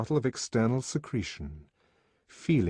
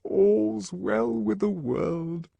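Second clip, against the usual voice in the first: murmured; 12 semitones higher, 3 dB louder, much slower than usual. A narrator's reading. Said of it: "murmured the D H C".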